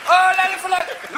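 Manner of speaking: high, loud sing-song la la; sing-song mock. Mocking searchers who can't find him, high sing-song. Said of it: "It's like".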